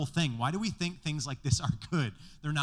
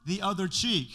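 quoting Jesus; 5 semitones higher, 6 dB louder, slower than usual. Retold or imitated. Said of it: "Jesus said".

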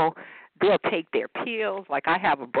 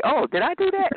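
mock innocent; 11 semitones higher, 4 dB louder than usual. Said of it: "and they say".

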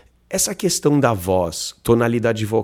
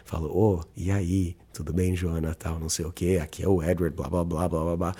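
low, soft, laid-back greeting; relaxed voice message; 6 semitones lower, 7 dB quieter than usual. Shown as a demonstration. Voice note to a Tinder match, relaxed and low. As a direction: ease into it like a chilled-out voice note. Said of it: "dou aquela relaxada".

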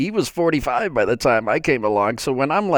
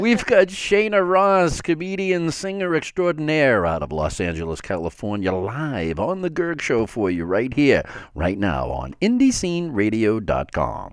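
radio announcer. Real, not acted. Radio host introducing a singer to listeners, announcer voice.

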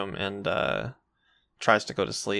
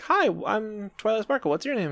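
Twilight voice; 10 semitones higher than usual. Retold or imitated. Voicing Twilight greeting cheerfully.

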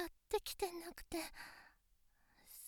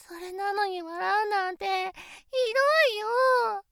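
pouting complaint; 5 dB louder, slower than usual. Acted. Hurt she was laughed at.

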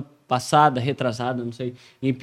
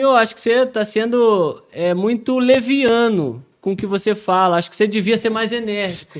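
friend's advice; 5 semitones higher than usual. Retold or imitated. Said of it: "E ele falou pra mim".

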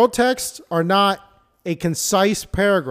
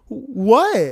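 put-on whiny girlfriend; 2 semitones higher than usual. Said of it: "they'll just be like".

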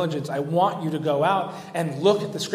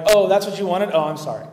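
talking down, sarcastic, louder on oh; mock apology to children; 3 semitones higher, 5 dB louder than usual. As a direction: fake sorry as if to a child. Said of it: "talking to them like they're children".

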